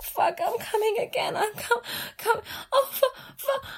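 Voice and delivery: high, loud moaning cries of climax. Acted. Climax, crying out repeatedly.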